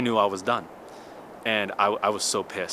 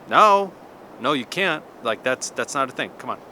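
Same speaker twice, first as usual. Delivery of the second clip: mock loud protest; 4 dB louder than usual. Retold protest over chess rule.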